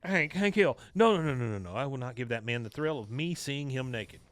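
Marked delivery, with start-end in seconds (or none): 0.0-1.7 higher, agitated retold fretting; flustered panic. Peggy frantic to recall her husband's name, flustered. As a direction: act out mildly panicked searching for a word.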